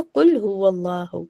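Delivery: कुल हुवल्लाहु with rounded "u" sounds; correct damma vowel. Shown as a demonstration. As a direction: keep कुल हुवल्लाहु on "oo", never "oh". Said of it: "हुवल्लाहु नहीं पढ़ेंगे". (कुल हुवल्लाहु, गोल ऊ के साथ)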